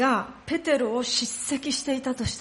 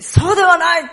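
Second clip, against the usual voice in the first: higher, louder burst of denial; overeager denial; 7 semitones higher, 8 dB louder than usual. Acted. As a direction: blurt it out with too much force. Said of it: "否定するために勢い余った". (勢い余って強く否定)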